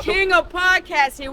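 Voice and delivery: shout. Real, not acted. Hype introduction on camera.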